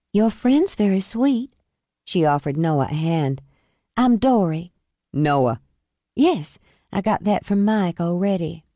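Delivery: a hint of a flirty invite; lightly voiced Dory. Dory chats up Noah.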